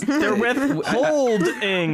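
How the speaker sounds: slow stretched "withholding", high; drawn out pun. Shown as a demonstration. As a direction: draw out the hold in "withholding". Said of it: "The word hold is in it".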